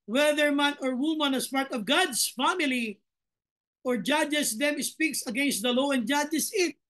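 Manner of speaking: slow, measured Bible reading; solemn verse read to the congregation; scripture reading. Acted. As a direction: read each word of the verse deliberately.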